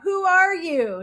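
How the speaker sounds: mock soldier demanding an answer; demanding shout. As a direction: demand it sharply.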